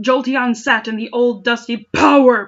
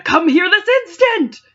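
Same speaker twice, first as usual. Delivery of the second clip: hammed-up queen's command; 9 semitones higher, 5 dB louder than usual. Villain queen summoning servant.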